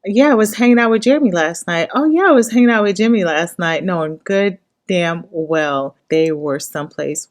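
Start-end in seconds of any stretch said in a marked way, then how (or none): 0.1-3.8 fast, high, breezy fake alibi; hammed-up casual lying bro; mock cover story. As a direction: rattle it off like a guy covering for his buddy. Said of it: "they are going to, like".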